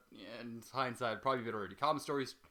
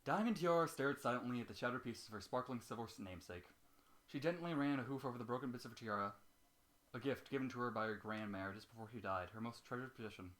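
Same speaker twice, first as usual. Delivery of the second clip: steady storyteller reading of a sad tale; story narration; 4 dB quieter than usual. A narrator's reading. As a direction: read it like a sombre bedtime story. Reads fanfiction aloud.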